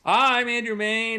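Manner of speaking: slow level check. Shown as a demonstration. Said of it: "talking more at this level like this".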